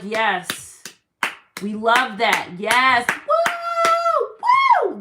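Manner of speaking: cheering crowd. Retold or imitated. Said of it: "They're like".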